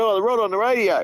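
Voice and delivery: quoting the forky. Retold or imitated. Forklift driver quoted, high pitch.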